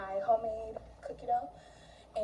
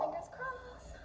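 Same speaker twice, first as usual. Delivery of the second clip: high squeaky repeat; 14 semitones higher, 9 dB quieter, slower than usual. Real, not acted.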